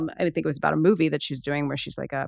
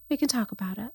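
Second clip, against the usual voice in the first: smug; 6 semitones higher, 8 dB quieter, faster than usual. Retold or imitated. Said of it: "A little bit smug".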